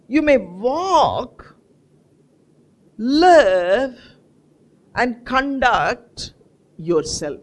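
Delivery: slow, each word set apart with pauses; slow emphatic reading. Acted. Preacher slowly spells out verse.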